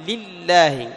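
"لله" with a light first lam, doubled second; light then doubled lam. Shown as a demonstration. Teacher shows students the two lams, "لله" with second lam doubled. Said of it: "اللام الأولى مخففة واللام الثانية مشددة".

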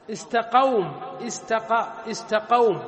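"استقوم" said as istaqawm, with a silent waw after qa; pronunciation demonstration. Shown as a demonstration. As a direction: break it down as istaqa, then istaqawm. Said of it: "كيف تنطقها". (نطق «استقوم» بفتح القاف وسكون الواو)

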